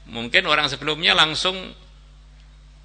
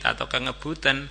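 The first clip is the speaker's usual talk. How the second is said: normal talking voice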